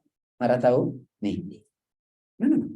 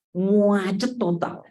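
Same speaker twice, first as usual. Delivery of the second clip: slow emphatic muacet total; drawn-out macet; 5 semitones higher, much slower than usual. Shown as a demonstration. Preacher describing the jam, slowly stretching muacet. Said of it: "stretched word for effect".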